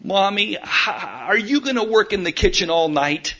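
put-on a light child's voice, plain pitch; child calling from her room. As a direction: call out gently like a little girl from the next room. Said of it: "was the voice heard".

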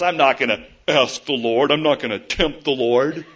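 sneering, sarcastic mock refusal; scornful, mocking. Preacher mimics Ahaz refusing to ask the Lord, scornful and sarcastic. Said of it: "sarcasm in his voice".

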